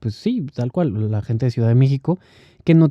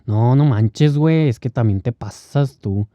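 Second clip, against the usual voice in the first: Mexican slang imitation. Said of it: "pero hablan exactamente así".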